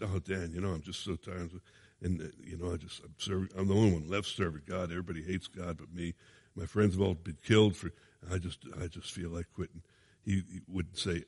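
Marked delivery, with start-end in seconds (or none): 0.0-9.8 mock self-pity. Preacher mimics complaining to Dan.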